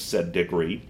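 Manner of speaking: ordinary delivery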